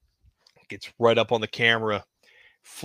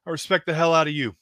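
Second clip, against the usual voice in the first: Flair's voice; faster than usual. Acted. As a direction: play the boss leaning back, gravelly confident. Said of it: "kinda leans back in his chair and says".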